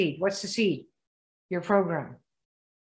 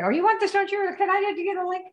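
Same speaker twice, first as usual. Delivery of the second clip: high, sleazy come-on; tempting devilish whisper; 10 semitones higher than usual. Retold or imitated. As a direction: tempt them, all too eager. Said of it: "everybody wants to jump in bed with people".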